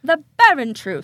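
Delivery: loud title call; punchy announced "barren truth"; announcer. Real, not acted. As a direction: announce the segment name. Announcing the segment.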